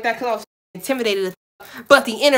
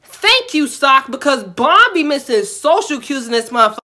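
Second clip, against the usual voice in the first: relieved thanks; 3 semitones higher, 5 dB louder than usual. Real, not acted. Grateful the second manager rescued her.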